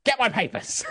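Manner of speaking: calling out. Acted. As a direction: call your son from the shop floor. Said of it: "calls out".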